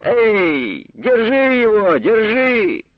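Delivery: woman's high shout to catch him; calling out. A narrator's reading. Market woman shouting to catch the thief. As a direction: yell after the running boy. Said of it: "гукала жінка".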